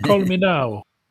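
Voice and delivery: put-on very high-pitched, loud, salesy Jamaican accent. Pretending to phone a TV psychic for a reading: Miss Cleo impression. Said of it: "Call Miss Cleo".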